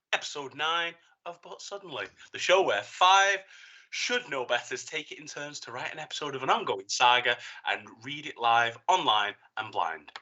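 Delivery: upbeat, emphatic host reading the show's premise; cheery announcer. Acted. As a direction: brighten up into a lively show intro. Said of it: "and then cheery voice".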